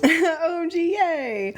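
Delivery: high delighted squeal; excited squeal. Real, not acted. Excited reaction to news.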